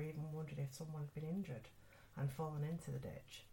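measured, even storytelling voice; ghost story narration. Acted. Podcast host reading a ghostly hospital story to listeners, measured narration. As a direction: recount an eerie tale, pausing between phrases.

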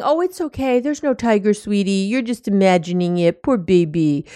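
lightly voiced condescending comfort; patronizing coo. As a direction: coo it like soothing a baby, condescending. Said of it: "And you're saying".

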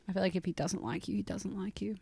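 soft unvoiced whisper; whispered aside. Real, not acted. Telling her friend about Garfield, in a confiding whisper.

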